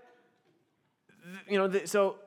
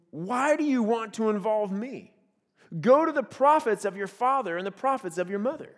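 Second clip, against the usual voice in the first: attitude. Retold or imitated. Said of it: "Can you hear his attitude?".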